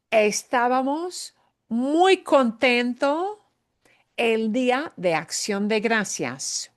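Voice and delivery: slow, high model sentence stressing muy; Spanish teacher modelling estábamos muy contento with stress on muy; slow happy example. Shown as a demonstration. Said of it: "We were really happy on Thanksgiving Day".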